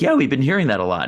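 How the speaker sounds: quick, high casual staffer; breezy clerk voice. Retold or imitated. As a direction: shrug it off lightly. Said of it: "for her to come up and be like".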